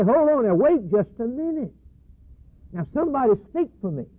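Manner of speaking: desperate plea. Acted. Condemned man pleads before God.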